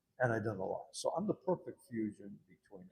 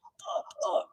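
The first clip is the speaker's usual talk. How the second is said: hesitant resident; 4 dB louder than usual. Retold or imitated.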